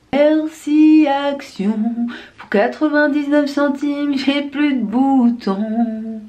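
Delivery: slow drawn-out ad voice; mock advert slogan. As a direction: sell it like a cheesy ad. (voix de pub lente et exagérée)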